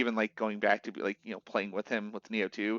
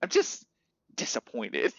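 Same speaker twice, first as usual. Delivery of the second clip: lightly imitated dad, halting with disappointment; mock fatherly disappointment; disappointed dad. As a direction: pause before the last word, like a let-down parent. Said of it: "like a dad talking to his kid".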